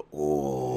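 low, drawn-out mock "oh"; imitated scrunched-up "oh". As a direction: imitate his long, low groaned "oh". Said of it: "he, like, scrunches his".

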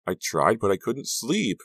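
exhausted friend wailing. A narrator's reading. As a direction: wail it out in distress. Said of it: "Maya wailed".

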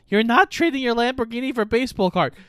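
put-on fast, high scolding girlfriend; hurried mock scolding from the girlfriend. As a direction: snap it out at him quickly. Girlfriend quoted in retelling.

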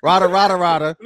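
mock quote. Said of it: "equals bitch ass nigga".

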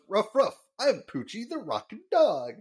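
hint of a slick announcer selling the dog; light pitchman take on the line; lightly voiced Troy McClure. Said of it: "he doesn't really give anything to the voice".

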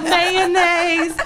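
high, loud item-by-item insistence; hammed-up craving, each item punched; emphatic demanding list. Re-enacts demanding list to husband.

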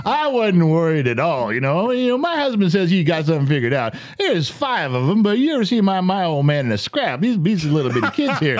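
imitated wife showing off, cocky and breezy; confident bragging. Wife bragging to the gathered passengers, mock confidence. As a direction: brag on your husband as if never worried. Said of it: "she had the voice of confidence".

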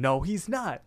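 retold indignant comeback; mock angry. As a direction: imitate an angry denial, lightly. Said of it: "Mordecai gets really mad".

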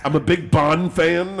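slow, mock English accent; bad English accent. Prank caller mocking his own line, bad English accent. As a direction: draw it out in a badly faked English accent. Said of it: "and I do it badly".

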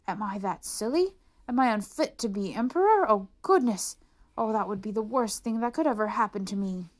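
fearing he is unfit; emperor's dismay. Acted. Emperor's inner panic voiced.

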